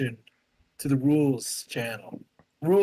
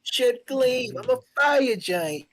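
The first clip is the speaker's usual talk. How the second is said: giant's boast; 7 semitones higher, slower than usual. Pretend. Player voices Aegir boasting.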